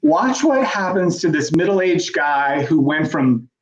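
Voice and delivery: slow, drawn-out mock headline read; deadpan parody of a clickbait headline. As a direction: ham up a boring transformation headline.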